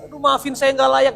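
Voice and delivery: high, pleading mock-melancholy whine; overacted begging for forgiveness, pitched high; melodramatic apology. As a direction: ham up "saya nggak layak" like a tragic penitent.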